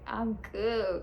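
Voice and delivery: lightly playacted druggy contentment; drawn-out, spaced-out reassurance; mock-loopy and totally relaxed; doped up. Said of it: "I was doped up".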